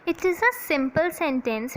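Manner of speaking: slow, deliberate dictation pace. Acted. Teacher dictating a definition to her class, slow and deliberate. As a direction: spell it out slowly for students to copy.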